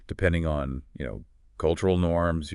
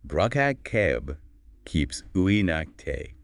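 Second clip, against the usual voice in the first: slow, garbled reversed words; backwards speech; much slower than usual. Acted. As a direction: sound out reversed gibberish slowly. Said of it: "you ready for this coded message?".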